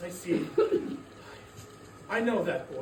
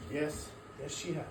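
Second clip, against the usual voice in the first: sad; 7 semitones lower, 9 dB quieter than usual. Acted. Scrooge grieving his sister.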